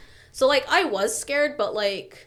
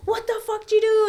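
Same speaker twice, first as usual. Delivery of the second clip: high-pitched mock outrage; retold outraged demand; 11 semitones higher, 4 dB louder than usual. Man sees the cops and confronts her, imitated high outrage. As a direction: imitate an alarmed, indignant accusation.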